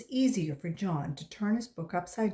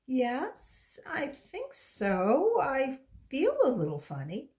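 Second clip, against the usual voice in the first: put-on dazed kid; 3 semitones higher than usual. Dazed boy after falling.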